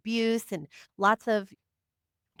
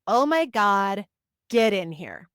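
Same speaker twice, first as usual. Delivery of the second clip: alarmed command; 5 dB louder, slower than usual. Retold or imitated. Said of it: "She's like".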